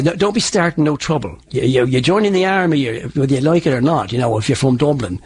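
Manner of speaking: Dublin lilt, Irish vowels; southern Irish accent. Shown as a demonstration. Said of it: "like, from the south of Ireland".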